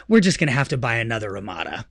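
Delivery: imitating his wife laughing it off; mock wife. Husband mimics wife suggesting buying new.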